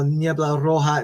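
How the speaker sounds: normal talking voice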